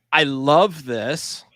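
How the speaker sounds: drawn-out, deliberate emphasis; emphatic insistence. Retold or imitated. Diner insisting to a doubtful waiter on chicken fried steak, slow and emphatic. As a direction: spell out the order slowly, with mock patience.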